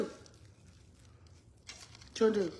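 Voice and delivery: whispered, very slow "What you gonna do". Shown as a demonstration. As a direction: drag it out in a breathy whisper. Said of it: "repeats line slow and breathy".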